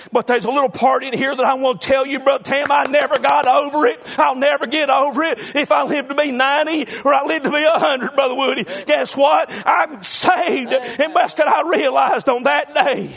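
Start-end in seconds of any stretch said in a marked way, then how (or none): 2.7-13.1 emphatic revival preaching; fervent preaching. Real, not acted. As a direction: preach it with rising conviction. Preaches his assurance of being saved.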